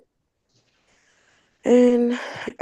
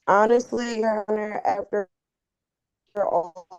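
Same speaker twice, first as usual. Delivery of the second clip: garbled dropping call audio; breaking up; 3 semitones higher than usual. Real, not acted. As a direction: voice cutting out mid-sentence. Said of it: "you're breaking up".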